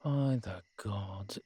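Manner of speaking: slow, sagging exasperation; exasperated. Acted. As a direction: drag it out, worn thin by the fuss. Exasperated at the listener's ladder trouble.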